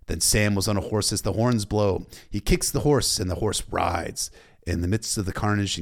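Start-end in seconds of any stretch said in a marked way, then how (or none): none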